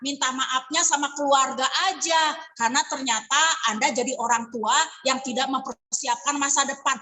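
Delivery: mildly voiced scornful salesperson; condescending agent. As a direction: agent shaming a client who declined. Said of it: "nggak kayak gitu ngomongnya".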